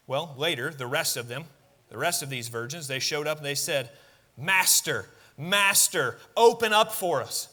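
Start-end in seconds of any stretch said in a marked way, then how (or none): 4.4-7.5 mild panic, pleading at the door; panicked plea. Retold or imitated. Foolish virgins begging the master at the shut door, mildly panicked. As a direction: beg to be let in, a touch frantic. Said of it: "you can almost hear the panic".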